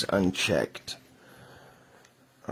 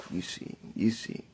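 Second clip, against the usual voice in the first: whispered aside; 7 dB quieter than usual. Acted.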